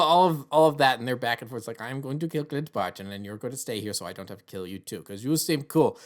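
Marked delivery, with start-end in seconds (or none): 1.8-6.0 lightly put-on Russian accent, dropping softer; terrible Russian accent. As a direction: toss off a bad Russian accent. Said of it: "that's a terrible Russian accent".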